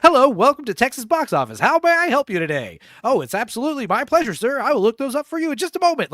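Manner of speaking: high, loud, over-the-top customer service voice; obnoxiously friendly phone clerk. Retold or imitated. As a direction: gush at the caller with fake cheer. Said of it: "how obnoxiously".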